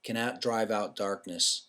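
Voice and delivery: slow, weighty recitation; reciting Doctor King's words slowly and gravely; solemn quotation. Shown as a demonstration. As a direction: let each line of the quote land slowly. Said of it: "and it is".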